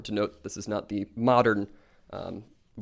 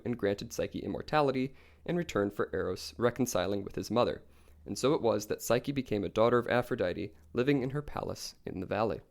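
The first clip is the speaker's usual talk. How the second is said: calm storytelling. A narrator's reading. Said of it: "the way you summarize things and the tone of your voice".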